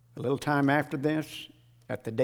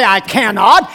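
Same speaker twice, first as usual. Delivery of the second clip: shouted quote; 7 semitones higher, 16 dB louder than usual. Retold or imitated. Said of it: "He didn't say".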